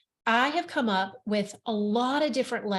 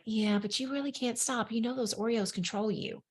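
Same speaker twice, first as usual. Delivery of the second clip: softer, doubting inner voice; small voice; 6 dB quieter than usual. Retold or imitated. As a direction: say it softly like a nagging doubt. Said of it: "there's a small voice going".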